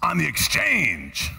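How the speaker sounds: "exchange" drawn out slowly; stress on EXCHANGE. Shown as a demonstration. Preacher showing where the emphasis belongs, stress on "exchange". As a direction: land slowly and firmly on "exchange". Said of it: "You know where the emphasis belongs?".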